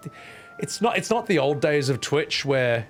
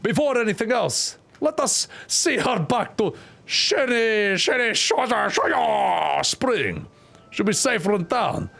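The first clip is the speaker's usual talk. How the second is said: slow, higher voiced reading; slow character voice; 5 semitones higher, slower than usual. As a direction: stretch the name out slowly. Voicing character slowly.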